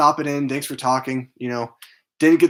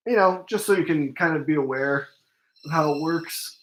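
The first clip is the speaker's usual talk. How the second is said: yawning; 4 semitones higher than usual. Real, not acted. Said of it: "I'm, like, yawning so much".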